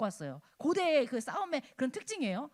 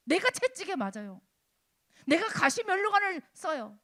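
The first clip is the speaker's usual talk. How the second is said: raised, emphatic sermon voice in short bursts; forceful preaching; 3 semitones higher, 6 dB louder than usual. Acted. Preacher telling congregation of innocent Jesus' suffering, forceful preaching. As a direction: drive each suffering home to the congregation.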